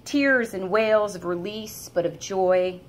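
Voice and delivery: measured, unhurried poem recital; poetry reading. Acted. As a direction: read each image as if seeing it again. Reads her own poem aloud.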